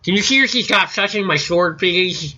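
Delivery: mock the annoying player pleading about his sword; a lightly voiced whiny young gamer; whiny nerd voice. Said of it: "mocking the player".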